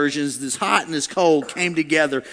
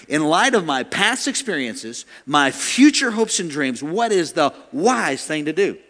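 slow recital; slower than usual. Shown as a demonstration. Repeats line for note takers.

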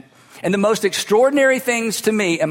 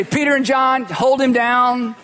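mock command; 4 semitones higher, slower than usual. Imagined Jesus ordering disciples.

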